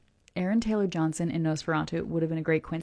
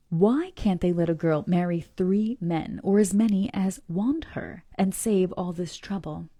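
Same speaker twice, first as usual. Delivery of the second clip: letter read aloud with feeling; story reading; slower than usual. Acted. Reads the letter.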